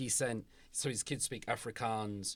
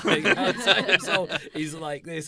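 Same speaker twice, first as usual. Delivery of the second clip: loud amused laugh through the words; laughing loudly; 6 semitones higher, 12 dB louder than usual. Real, not acted. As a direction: laugh it out, louder. Amused retelling teacher's answer.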